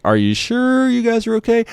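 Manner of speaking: very high imitated woman's question; doubting lady operator. Operator still not getting it, imitated doubting lady. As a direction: ask it in a mock high, doubtful voice. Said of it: "She's like".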